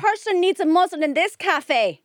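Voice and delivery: cutting retort. Retold or imitated.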